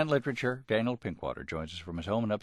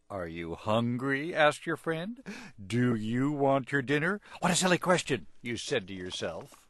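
storybook reading; 3 semitones higher than usual. A narrator's reading. Host taking his turn reading the dog story, animated. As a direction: read it big for a child listener.

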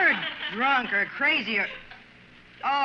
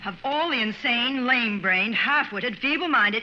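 angry rant; 2 semitones higher, 4 dB louder, slower than usual. Acted. Furious rant.

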